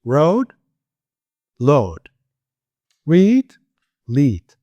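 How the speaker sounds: "Road", "load", "Read", "lead" each said separately with a pause; minimal pair drill. Shown as a demonstration. Teacher drilling r and l word pairs one by one. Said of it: "Out of rhythm".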